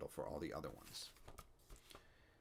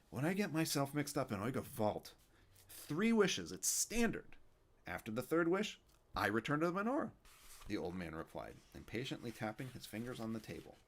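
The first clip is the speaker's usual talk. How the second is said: put-on a kvetching old man, raised up; Yiddish old man; 5 semitones higher than usual. Fischel voice continues.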